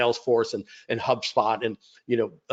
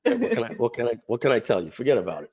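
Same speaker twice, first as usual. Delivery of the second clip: hammed-up New York wiseguy; New York accent; faster than usual. Host plays along with a mild New York accent. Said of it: "That, that's an accent?".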